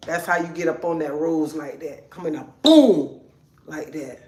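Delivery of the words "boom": loud punched boom; sudden boom. Shown as a demonstration. Showing how to come in, loud sudden boom. Acts out coming in there.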